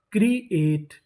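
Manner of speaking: क्रिएट split as क्री, एट; syllable by syllable. Shown as a demonstration. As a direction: sound out क्रिएट in two parts. Teacher sounding out new word.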